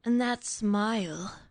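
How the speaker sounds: slow, dreamy audiobook narrator. Retold or imitated. Mocking the audiobook narrator, slow and dreamy. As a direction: drag it out like a cheesy narrator. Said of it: "the narrator who's like".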